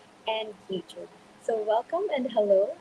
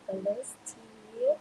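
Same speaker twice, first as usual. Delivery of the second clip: drawn-out high sing-song greeting, much higher and slower; sing-song call; 12 semitones higher, 5 dB quieter, much slower than usual. Real, not acted. Host calling guest Steve onto the stage, slow high sing-song. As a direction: sing his name out slowly to welcome him.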